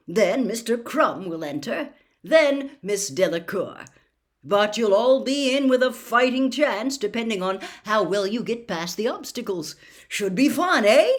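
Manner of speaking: brisk, bouncy enthusiasm; upbeat announcer of a fun contest; cheery Bagman. Acted.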